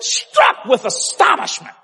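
"Struck" high, drawn out and emphatic; stress on STRUCK. Real, not acted. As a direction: lean hard and slowly on "Struck". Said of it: "I can't emphasize that word".

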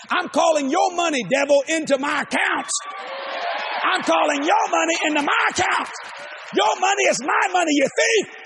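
rising, forceful preacher's command; rebuking the devil. Acted. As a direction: demand the money back from the devil.

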